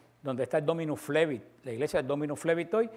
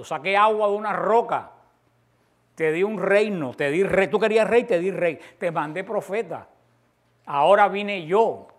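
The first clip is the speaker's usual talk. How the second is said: louder and louder, higher, a pleading God; rising reproach; 3 semitones higher, 6 dB louder, slower than usual. Acted. Preacher voicing God reproaching his people, building to a loud cry. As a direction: build each line until the last is a slow cry.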